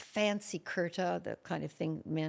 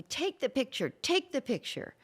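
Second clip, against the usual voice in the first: pushy woman; 7 semitones higher than usual. Retold or imitated.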